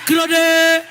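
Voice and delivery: calling out in Yoruba, laughing; mock shouting for help. Woman calling Yoruba men to help in the motor park, shouting. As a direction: cry out for help half laughing. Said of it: "I started shouting".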